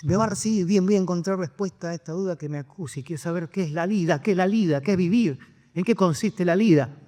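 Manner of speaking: mildly excited, voice lifted a little; eager, tumbling list of questions; excited seeker. Acted. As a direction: act out a touch of breathless anticipation. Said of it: "el tipo todo emocionado".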